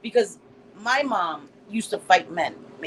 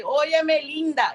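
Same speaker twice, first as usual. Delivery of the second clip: mock Spanish flirt; 6 semitones higher, slower than usual. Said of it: "That's what y'all want me to say".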